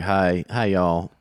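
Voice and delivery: light Georgia accent greeting. Shown as a demonstration. Co-host asked to do Georgia, tentative Georgia accent. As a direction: try a mild Southern Georgia drawl. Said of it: "He's got that Georgia accent".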